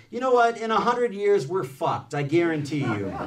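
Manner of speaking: high, loud burst, settling toward the end; blurted out. A narrator's reading. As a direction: blurt it out as the postdoc's outburst. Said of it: "Nico blurted".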